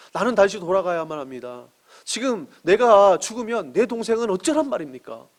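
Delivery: retold tearful plea. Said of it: "그래서 막 울면서".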